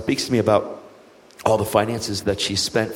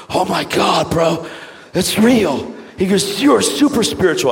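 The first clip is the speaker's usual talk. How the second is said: much higher and louder; imitating a stunned waiter; amazed; 9 semitones higher, 4 dB louder, slower than usual. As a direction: blurt it in amazement.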